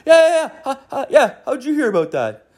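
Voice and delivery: put-on very high giggly old man voice; a high, eager dad, half laughing; imitating dad. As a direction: son imitating his father, very high. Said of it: "He's like".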